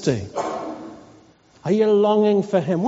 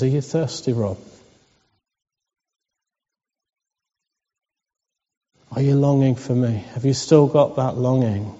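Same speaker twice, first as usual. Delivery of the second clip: gentle voice of Jesus; 6 semitones lower than usual. Retold or imitated. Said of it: "He says".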